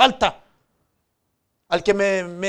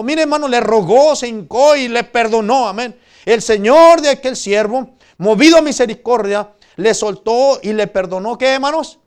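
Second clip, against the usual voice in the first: predicación fuerte, con voz proyectada; proclámalo con fervor ante la congregación; prédica enérgica; 3 semitones higher, 9 dB louder than usual. Real, not acted. (prédica encendida)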